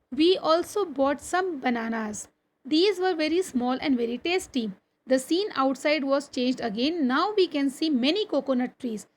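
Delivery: slow, deliberate classroom reading; textbook read-aloud. Acted. Teacher reading a train journey story to pupils, slow read-aloud. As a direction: read it out slowly, phrase by phrase.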